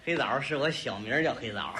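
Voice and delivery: very low-pitched comic confession; deep, sheepish aside; low admission. Acted. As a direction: own up reluctantly, way down in pitch. Embarrassed admission of his own nickname.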